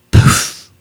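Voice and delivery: voiceless puffed whisper. A narrator's reading. Bigfoot to boy's ear, whispering. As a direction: breathe it into an ear. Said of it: "he whispered into Jackson's ear".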